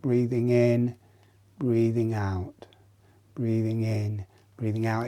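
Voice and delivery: softly dropped, measured guiding voice; quiet, paced breathing instruction; breathing cue. Shown as a demonstration. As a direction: cue each breath gently, letting it settle. Counts out breaths while demonstrating.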